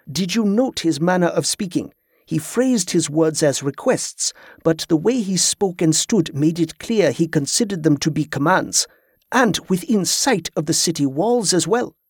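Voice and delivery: measured, analytical companion's voice; lightly voiced, considered character speech; observant Grievous. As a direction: weigh the stranger's manner with interest.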